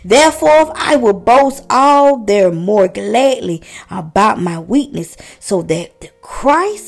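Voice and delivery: slow, solemn reading of the verse; scripture reading. Acted. Preacher reading Second Corinthians to listeners, slow and solemn. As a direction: let each phrase of the verse land slowly.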